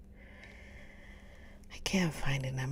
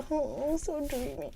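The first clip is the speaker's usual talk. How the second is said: much higher, sighing dreamy swoon; swooning reader; 10 semitones higher than usual. Retold or imitated. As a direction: swoon over the hero. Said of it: "Be like".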